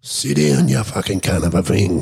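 high-pitched panicked angry order; freaking out. Retold or imitated. Captor yelling at the panda with the prod, freaking out. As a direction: imitate a man losing it at an animal. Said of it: "This guy's freaking the fuck out".

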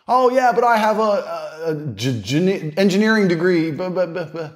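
hammed-up stuttering know-it-all; mocking smart dude. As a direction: mimic a smug smart dude tripping over his words. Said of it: "I know a bunch of smart dudes".

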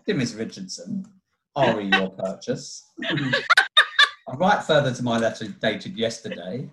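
slow, measured dictaphone voice; slow dictation with punctuation. Retold or imitated. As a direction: read out a letter to a dictaphone. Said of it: "you'd spell everything out".

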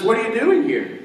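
asked high with a laugh; amused high-pitched retelling; laughing question. Acted.

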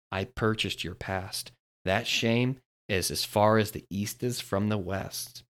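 slow, soft, reassuring father; tender divine promise; voice of God. Acted. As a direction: lean in and reassure gently. God speaking tenderly to listener.

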